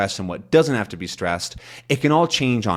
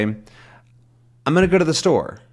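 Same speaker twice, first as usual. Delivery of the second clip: slow, higher line leaning on "go" and "store"; stress on go and store; 5 semitones higher, slower than usual. Shown as a demonstration. Teacher showing learners key words, stressed go and store. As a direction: stretch out "go" and "store", squeezing the rest. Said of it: "key words in here, which are go and store".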